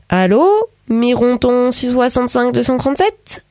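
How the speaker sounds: amiable phone answering, lifted pitch; pleasant. A narrator's reading. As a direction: answer the telephone politely, in a lilting tone. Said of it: "dit-il d'un ton aimable". (ton aimable au téléphone)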